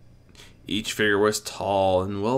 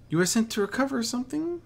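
gentle coaching; faster than usual. A narrator's reading. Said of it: "the stallion coached gently".

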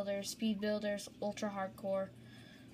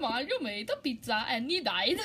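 laughing; 3 semitones higher than usual. Real, not acted. Joke told through laughing.

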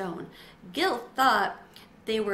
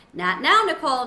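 louder, firm teacher cutting in; 5 semitones higher, 8 dB louder than usual. A narrator's reading. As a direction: stop the pupil mid-sentence, loud and firm.

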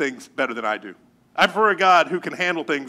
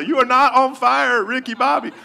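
higher-pitched mock scolding; exasperated brother; 7 semitones higher, 4 dB louder than usual. Brother to the boy shrieking he's on fire, mock exasperated. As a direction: retell a brother's loud, impatient put-down. Brother's retort to his panic.

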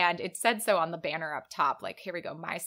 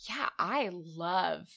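whisper; much slower than usual. Real, not acted. Musing on cheese ice cream.

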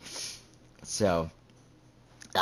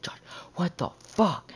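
high-pitched mock outrage; mock indignant squeal; pissed off; 10 semitones higher than usual. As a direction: imitate an angry texter, voice jumping up. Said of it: "fucking pissed off at me".

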